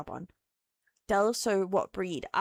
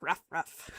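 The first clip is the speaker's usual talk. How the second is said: mock bark; 3 semitones lower, 5 dB quieter than usual. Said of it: "Does that work?".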